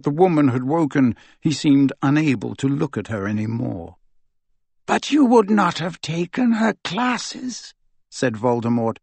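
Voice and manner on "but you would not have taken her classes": cold dark lord. Acted. Voldemort to Draco.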